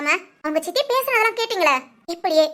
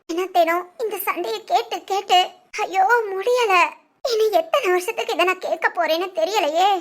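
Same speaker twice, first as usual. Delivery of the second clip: crying. Acted. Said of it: "என்னடா அழுதுகிட்டு இருக்க".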